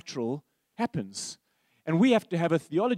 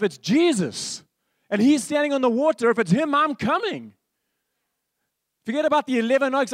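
higher and louder, fired-up declaration; Peter's bold resolve; 5 semitones higher, 5 dB louder than usual. Retold or imitated. Peter brushing off his mates to step out, excited and determined. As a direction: throw caution aside and commit.

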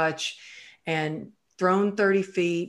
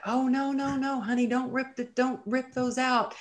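high, sing-song soothing nurse voice; imitating a nurse; 8 semitones higher than usual. Nurses soothing a waking patient, high sing-song voice. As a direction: coax like a nurse calming a patient.

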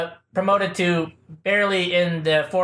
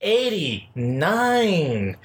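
show intro; much slower than usual. Acted. Host announces the show's opening.

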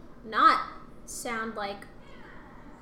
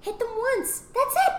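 laughing; 11 semitones higher than usual. Real, not acted. Laughing at her own advice.

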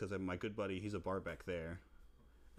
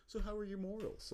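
sly question; 11 semitones higher than usual. Retold or imitated. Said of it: "She goes".

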